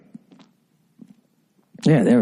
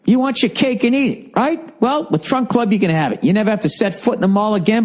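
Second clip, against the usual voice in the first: ordinary delivery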